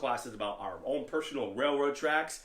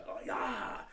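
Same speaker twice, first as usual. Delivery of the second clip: drawn-out, higher-pitched kiai cry; demonstrated kiai yell; 8 semitones higher than usual. Shown as a demonstration. Teacher shows how yelling gets you psyched up, drawn-out kiai. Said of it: "Why do we yell?".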